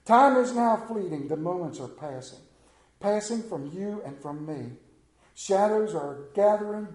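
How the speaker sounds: hushed preacher reading a hymn; hymn recitation. Acted. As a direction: intone the hymn lines like a psalm.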